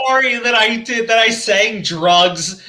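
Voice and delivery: drawn-out mock-sorry quote; mock apology. Mimics another's absurd apology.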